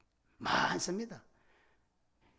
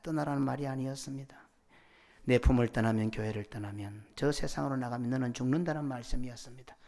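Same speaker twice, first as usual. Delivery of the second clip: earnest, measured praying voice, evenly pitched; congregational prayer; 3 semitones lower than usual. Real, not acted. Pastor praying to God after the sermon, solemn and earnest. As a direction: pray aloud in steady solemn phrases.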